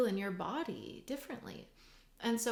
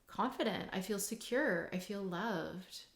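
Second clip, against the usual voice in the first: calm self-assurance. Shown as a demonstration. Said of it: "if that's the example".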